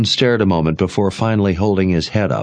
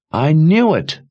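high, louder cry of triumph; cried out; 10 semitones higher, 4 dB louder than usual. A narrator's reading. Jensen crying out she knew it, higher and louder. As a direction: burst out with it. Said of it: "Jensen cried".

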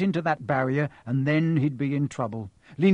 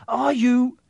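alternating two voices; 10 semitones higher, 6 dB louder than usual. A narrator's reading.

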